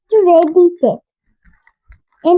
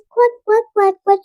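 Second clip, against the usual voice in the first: mommy duck quack; 3 semitones higher, 3 dB quieter than usual. Acted. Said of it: "Mommy duck said".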